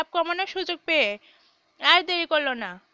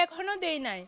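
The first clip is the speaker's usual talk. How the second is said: soft, sheepish reply; meek mumbling; 9 dB quieter than usual. A narrator's reading. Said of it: "মতি মিনমিন করে বলল". (মিনমিন করে)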